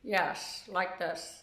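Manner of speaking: low, soft silly voice; funny voice. Shown as a demonstration. Showing the sisters' private language in a funny voice. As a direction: demonstrate the family's private funny voice, softly. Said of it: "we talk in a funny voice".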